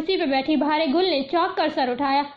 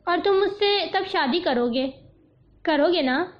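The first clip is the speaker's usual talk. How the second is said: ordinary delivery, nothing marked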